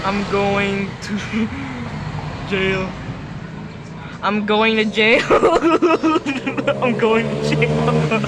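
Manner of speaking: giggling through the words; laughing. Real, not acted. Player laughing at his own mess, giggly. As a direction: laugh while confessing.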